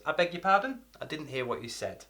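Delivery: calm, polite request, rising on "pardon". Shown as a demonstration. Asking somebody to repeat themselves, calm and polite. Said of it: "say it in a calm way".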